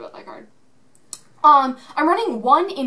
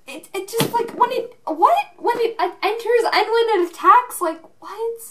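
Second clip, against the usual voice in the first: high-pitched, stammering disbelief; flabbergasted; 11 semitones higher, 4 dB louder than usual. Real, not acted. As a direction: stumble over the words in high-voiced amazement. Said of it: "I'm speechless".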